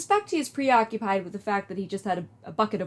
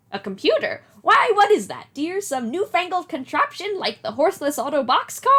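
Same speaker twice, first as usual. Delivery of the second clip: higher, doting grandmother voice; old lady voice; 6 semitones higher, 4 dB louder than usual. Acted. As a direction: play a kindly old granny. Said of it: "do an old lady voice".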